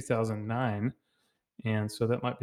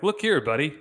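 mock confrontational buddy; 5 semitones higher than usual. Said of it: "challenging you to fight".

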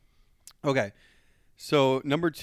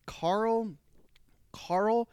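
a breathy whispered Carl, set apart before the punchline; whispered name; 10 semitones higher than usual. Real, not acted. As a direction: hush the name as if sharing a secret. Dramatic pause before naming Carl.

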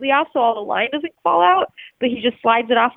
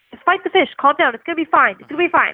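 calming guide; 5 semitones higher, faster than usual. Retold or imitated. Guide calming him during fight.

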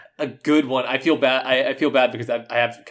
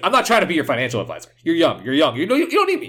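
quick imitated Brooklyn neighbor, rising in pitch; fast-talking Brooklyn impression; Brooklyn accent; 4 semitones higher, faster than usual. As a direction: wave it off like a Brooklyn guy. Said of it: "saying this, all this heavy Bro-, Brooklyn accent".

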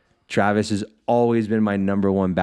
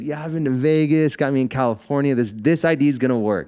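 cocky; 5 semitones higher than usual. Retold or imitated. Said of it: "I'm cocky as shit".

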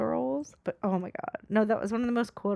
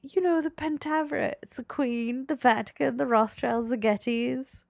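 put-on Mike Myers Scottish accent; 2 semitones higher than usual. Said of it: "Mike Myers doing a Scottish accent".

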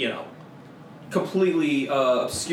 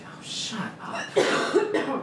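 dismissive; 10 semitones higher, much slower than usual. Acted. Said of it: "Aloran's gonna say".

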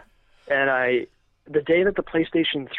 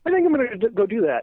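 fed-up announcement; 7 semitones higher, faster than usual. Retold or imitated. Telling coworkers he's quitting, raised and fed up. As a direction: announce you're done with it. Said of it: "And I'm like".

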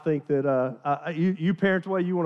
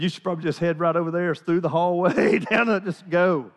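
laughing; 3 semitones higher, 4 dB louder than usual. Retold or imitated. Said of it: "I said".

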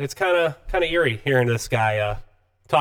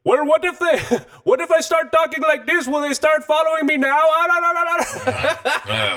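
mock Middle Eastern accent. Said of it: "he puts on this thick Middle Eastern accent".

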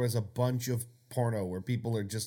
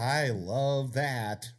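sarcastic; much slower than usual. Pretend. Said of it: "Just sarcastic porn".

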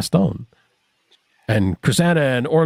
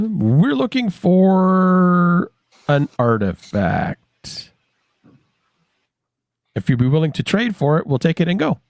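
in-character adventurer; 6 semitones higher, slower than usual. Acted. Player speaks in character to goblin.

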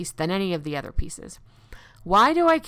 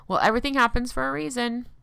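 sarcastic; 5 semitones higher, faster than usual. Retold or imitated.

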